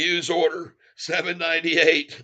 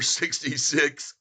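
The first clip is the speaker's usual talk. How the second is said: numbers read out through gloating laughter; slow, cackling over the number; mean laugh; 3 dB quieter, slower than usual. Real, not acted. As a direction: laugh as you read the price. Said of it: "that's a very mean laugh".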